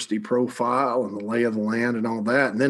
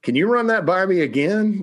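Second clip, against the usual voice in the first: mock greedy surprise; 8 semitones higher than usual. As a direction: play the school perking up at how much money, a hammed-up double take. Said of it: "they were like".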